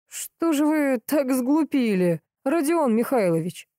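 насмешливо, медленно и выше; mocking. A narrator's reading. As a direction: needle the suspect slowly. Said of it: "насмешливо спросил полковник".

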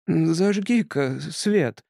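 slow eerie hissing voice; otherworldly hiss. A narrator's reading. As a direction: hiss it like a ghost. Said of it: "потусторонним голосом прошипел Тримбл".

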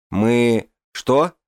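surprised, pitch jumping up; startled. Acted. Startled man reacts.

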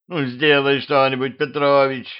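a mild whiny plea; whining. Acted. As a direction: whine at him like a bored girl. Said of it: "проныла вампирша". (слегка ноющим голосом)

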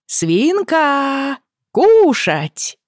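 loud call across the garden; shouting. A narrator's reading. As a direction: call out at the top of your lungs. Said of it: "изо всех сил прокричала".

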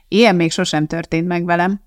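plain reading voice

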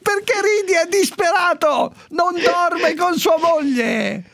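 high squeaky protest through laughter; laughing protest. Real, not acted. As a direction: plead while cracking up, stretching the words. Protesting while laughing at desperate listener.

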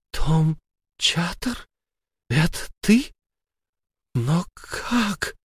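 high, breathless disbelief; as if seeing a ghost; stunned fear. Acted. Sara gasps at her dead husband's face, frightened.

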